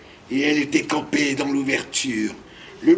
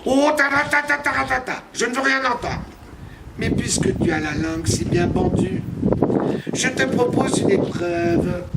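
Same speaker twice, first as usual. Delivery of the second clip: dismissive witch voice; 4 semitones higher than usual. Acted. Witch speaks for long.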